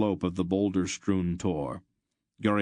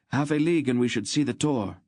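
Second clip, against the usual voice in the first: tense; 6 semitones higher, 3 dB louder, faster than usual. A narrator's reading. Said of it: "Loldoran said tensely".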